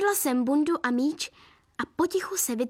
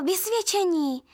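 higher, drawn-out eager prompt; 5 semitones higher, slower than usual. A narrator's reading. Narrator helpfully supplies the missing word, eagerly. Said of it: "napovídala jsem snaživě".

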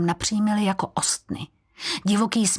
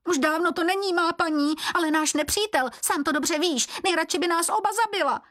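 high squeaky creature voice, defensive; a cringing servant objecting to the keeper; reproachful Běloran; 11 semitones higher than usual. Acted. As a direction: protest in a thin high squeal, rushing the last line. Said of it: "Vyčítavě se ohradil běloran".

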